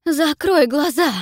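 high, loud, slow desperate cry; desperate shout. Acted. Gorgon warning her mistress not to look, desperate shout. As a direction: scream a warning in panic. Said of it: "отчаянно кричит Горгона".

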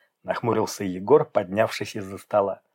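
ordinary delivery

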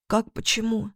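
тихо и высоко, сквозь всхлипы; почти беззвучный вопрос; тихий голос феи. A narrator's reading. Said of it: "Голос феи был тихим". (тихий голос феи в слезах)

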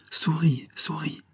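hasty reply. A narrator's reading. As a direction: hurry out an excuse in a small high voice. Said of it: "se hâta de répondre Colibri". (réponse hâtive, voix aiguë)

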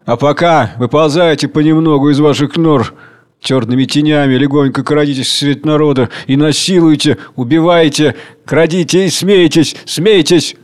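creeping, gloating command; sinister urging. Acted. Tsar Hunger urging his children to creep out and kill. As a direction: egg them on to crime. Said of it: "скрежещут зубами".

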